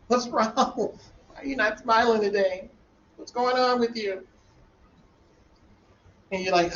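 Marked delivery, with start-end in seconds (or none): 0.1-4.3 higher, lightly voiced caring questions; concerned questioning. Teacher voicing students asking what's wrong, higher and concerned. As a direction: ask gently but brightly.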